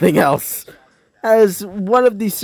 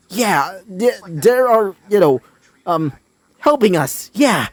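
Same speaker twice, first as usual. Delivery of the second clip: stuttering; 4 semitones higher than usual. Acted. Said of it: "said a somewhat stu-, you know, stuttering".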